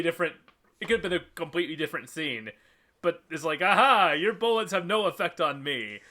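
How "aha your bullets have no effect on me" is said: high, loud "aha" opening a mock villain line; imitated vampire boast. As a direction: crow it like a hammy vampire. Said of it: "the vampires yell the im-, immortal line".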